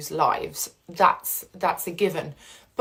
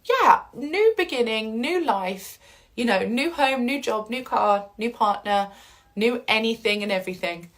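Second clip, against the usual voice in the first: excited; 3 semitones higher than usual. Retold or imitated. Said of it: "you might get really excited".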